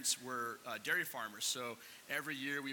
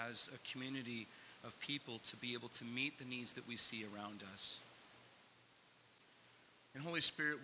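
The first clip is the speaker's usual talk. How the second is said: public prayer; 2 semitones lower than usual. Real, not acted. Leads the congregation in prayer.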